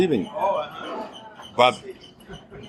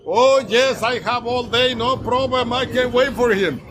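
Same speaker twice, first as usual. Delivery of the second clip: much higher, eager lady's voice; imitating the eager lady; 9 semitones higher than usual. Storyteller voicing the blind lady telling the waiter she can wait, much higher. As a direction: chirp it up high like a patient, grateful woman.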